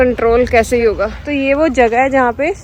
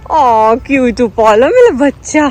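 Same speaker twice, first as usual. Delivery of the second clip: slow doting coo; 2 semitones lower, slower than usual. Real, not acted. Vlogger cuddles the puppy, slow doting baby talk.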